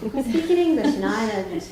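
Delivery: laughing scornfully; laughing mockery. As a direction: scoff through a laugh. Mocking laugh at mother.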